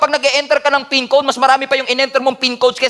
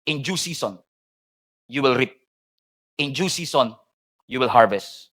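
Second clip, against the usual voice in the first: soft scripture reading; 10 semitones lower, 6 dB quieter than usual. Real, not acted. Quoting scripture softly at close.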